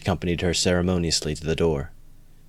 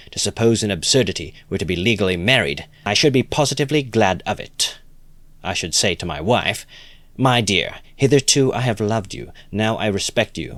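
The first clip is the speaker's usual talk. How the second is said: lightly voiced enthusiastic idealist; eager Lebeziatnikov; 3 semitones higher than usual. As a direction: gush with approval. Lebeziatnikov's long tirade.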